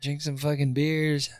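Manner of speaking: lightly sing-song bar poem; playful amateur verse recital; mock poem recital. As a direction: recite it like a nursery rhyme, slowing at the end. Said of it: "a little poem".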